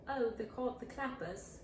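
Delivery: soft put-on British accent. Student naming instruments to the teacher, put-on British accent. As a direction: answer in an imitated British accent. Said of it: "my voice was pretty stuck".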